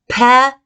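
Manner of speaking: "pepperoni" with clear lip pops and R. Shown as a demonstration. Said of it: "So I would go".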